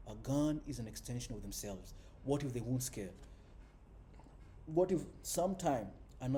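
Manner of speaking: expressive audiobook read with punched openings; dramatic prose reading, lively on the dialogue; story narration. A narrator's reading. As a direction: read the novel aloud, leaning into key phrases. Reads a novel aloud.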